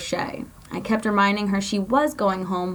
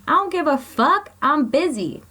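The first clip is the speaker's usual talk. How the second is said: high, loud dismissive snap; guard brushing off the inmate, loud and high; angry dismissal; 8 semitones higher, 4 dB louder than usual. Acted. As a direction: cut her off sharply, higher and louder. CO cuts Shay off.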